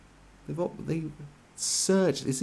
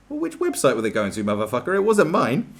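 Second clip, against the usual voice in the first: annoyed rant; 3 semitones higher, 7 dB louder than usual. Real, not acted. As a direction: build from grumble to furious shout. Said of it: "Sorry, I got a bit annoyed about that".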